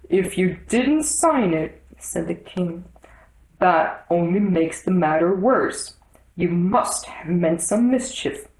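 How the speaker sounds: slow, pompous king. Acted. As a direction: weigh each word like a judge. The king accuses.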